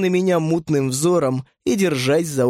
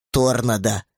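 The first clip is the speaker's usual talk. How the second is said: disdainful; 2 semitones lower than usual. Acted. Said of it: "Этот тон не оставлял сомнений".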